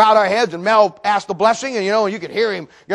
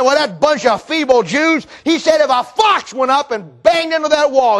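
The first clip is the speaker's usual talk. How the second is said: drawn-out, higher scoffing; mocking scorn; 5 semitones higher than usual. Scoffer belittles the feeble builders, mocking. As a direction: belittle them with slow scorn. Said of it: "they're making fun".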